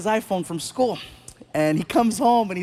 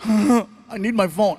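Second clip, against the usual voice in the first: put-on whiny teen; 4 dB louder, slower than usual. Son whining.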